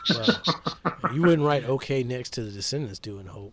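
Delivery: amused, laughing as you rib a friend; laughing tease. Real, not acted. Teasing co-host about his note.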